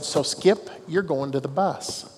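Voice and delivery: calm and matter-of-fact ejection; calmly. Retold or imitated. Umpire calmly ejecting the coach, calm. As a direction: state it evenly, no heat. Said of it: "I said it just that calmly".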